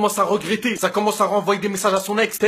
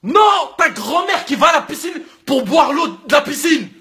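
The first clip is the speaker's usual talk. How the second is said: shouted no; 5 semitones higher than usual. Acted. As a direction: yell it in outrage. Furious outburst at the guy.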